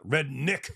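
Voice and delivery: redneck said as "red-NICK"; redneck, second vowel like "ih"; mocked pronunciation. Shown as a demonstration. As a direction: say redneck with a clipped "nick" ending. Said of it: "Not redneck".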